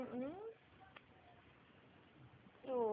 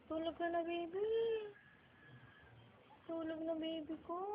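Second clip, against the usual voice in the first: higher, soft coaxing voice; 4 semitones higher, 4 dB quieter than usual. Real, not acted. Lulling the baby to sleep.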